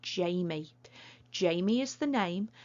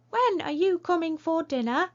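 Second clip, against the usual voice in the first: high, loud put-on voice for Bill; silly voice; 10 semitones higher, 7 dB louder than usual. Shown as a demonstration. Teacher reading Bill's line to pupils in a silly voice. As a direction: squeak the question out like a cartoon Bill. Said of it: "my silly voice".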